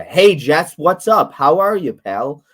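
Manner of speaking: high, loud and lively hello; energetic greeting. Shown as a demonstration. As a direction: greet her with full energy. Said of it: "I need more energy from you".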